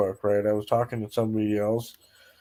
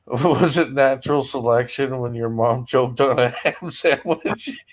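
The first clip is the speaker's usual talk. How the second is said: laughing through it. Retold or imitated. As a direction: laugh out the punchline. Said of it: "And I said".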